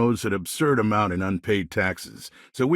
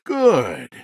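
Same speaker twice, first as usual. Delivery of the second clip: shout; 6 dB louder than usual. Acted. Shouted from the crowd.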